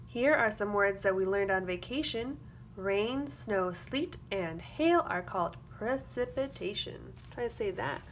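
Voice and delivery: put-on lively storybook read for young kids; sing-song picture book reading; reading to children. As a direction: read it like circle time, bright and clear. Reads a picture book aloud.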